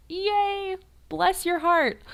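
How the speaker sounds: very high, sweet mock cheer; excited praise. Teacher praising child who repeated correctly, high and gushing. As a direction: gush over the little student. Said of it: "And you're like".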